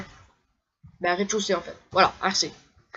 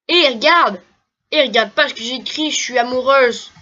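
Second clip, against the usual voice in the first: lightly voiced lovestruck girl; 3 semitones higher, 4 dB louder than usual. Reading a girl's love letter.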